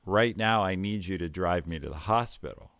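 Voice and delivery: steady calm words to an angry dad; very calmly. Retold or imitated. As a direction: keep it level and unhurried. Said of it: "I said very calmly".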